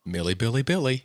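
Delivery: sing-song. Pretend. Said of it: "most fun way to say her name".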